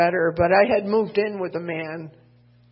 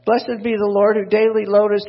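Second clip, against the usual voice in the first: corrected verse; 3 semitones higher, 8 dB louder than usual. Acted. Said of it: "no, that's not what I wanted".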